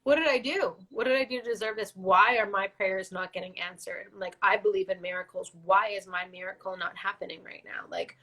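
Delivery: tearful anguished questioning; pleading while crying; real crying. Real, not acted. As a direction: ask why through real tears. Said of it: "I'm, like, crying".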